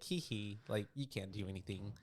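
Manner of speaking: reveling. Acted. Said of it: "Reveling in it?".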